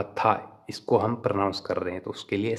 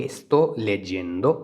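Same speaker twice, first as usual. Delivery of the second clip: very slow, clear Italian; slow model phrase; 3 dB louder, much slower than usual. Shown as a demonstration. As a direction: stretch Sto leggendo out for students. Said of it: "तो उसको हम बोलेंगे".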